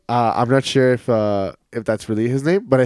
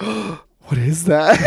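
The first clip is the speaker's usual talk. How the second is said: drawn-out, higher-pitched innocent question; innocent child; 5 semitones higher, much slower than usual. Retold or imitated. First-grader asking his friend about the bad word, innocently puzzled.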